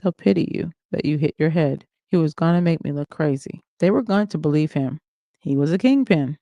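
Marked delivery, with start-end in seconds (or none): 0.0-1.9 bland, no energy. Acted. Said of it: "He spoke blandly with no energy".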